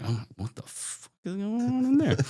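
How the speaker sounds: high, incredulous squeak; mock alarm at the weird trailer; shocked. Narrator retelling arriving at the trailer, high and alarmed. Purple light bursting from trailer.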